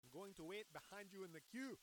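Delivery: attempted South African accent. Shown as a demonstration. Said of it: "I don't know if I have a South African".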